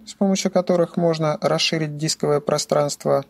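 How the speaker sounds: usual speaking voice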